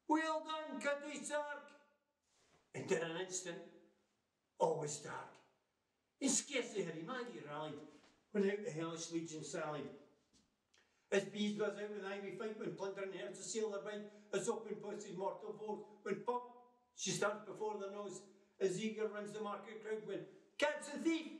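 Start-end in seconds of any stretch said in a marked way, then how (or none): 0.1-1.7 Tam bellows his approval at the dancer; roaring cheer. Acted. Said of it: "roars out". 20.6-21.3 loud cry. Acted. Market crowd shouting after a thief, loud cry. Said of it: "resounds out loud".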